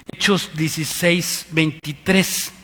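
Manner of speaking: Hechos dieciséis veintitrés said slowly, word by word; slow clear citation; slow dictation. Shown as a demonstration. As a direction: read out the reference slowly for them.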